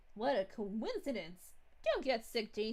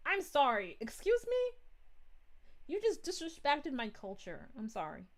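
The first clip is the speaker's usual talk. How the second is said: mock offended Italian. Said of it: "the Italian in him would be like".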